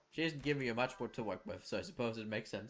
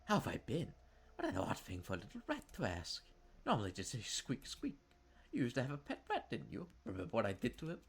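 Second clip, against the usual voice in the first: taunting sister. Acted. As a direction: gloat like a cruel big sister. Jennifer mocks her brother.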